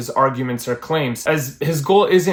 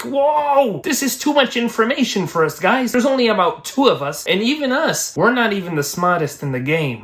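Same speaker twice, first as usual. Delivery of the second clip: high-pitched mock Italian accent; hammed-up Italian protest, pitched way up; 8 semitones higher than usual. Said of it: "an Italian accent".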